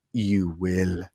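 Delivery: put-on low, soft "You will" with an accent on "will"; Wanda's Sokovian accent. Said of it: "the way that she inflects on the ill".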